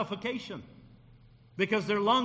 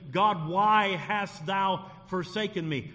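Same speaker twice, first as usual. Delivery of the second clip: slow anguished cry; slower than usual. Retold or imitated. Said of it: "he cries out and looks up and he says".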